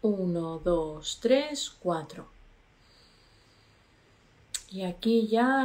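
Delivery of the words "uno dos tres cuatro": slow counting. Shown as a demonstration. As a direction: count to four slowly, one number at a time. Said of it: "cuatro y soltamos por la boca".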